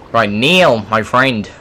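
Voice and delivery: put-on a lightly done, awful Australian accent; bad Australian accent. Gamer greeting his friend Neil in a bad Australian accent. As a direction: greet your mate in a poor Australian accent. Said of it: "That's an awful accent".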